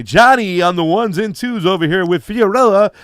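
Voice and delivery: playful radio host voice introducing the crew. Pretend. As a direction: pump it up like a morning-show DJ. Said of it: "I need to get my radio voice code going".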